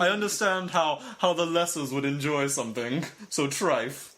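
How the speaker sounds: lightly affected condescending connoisseur; hammed-up snooty disdain; mock snob. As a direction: look down on it in a put-on voice. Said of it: "do the podcast like that".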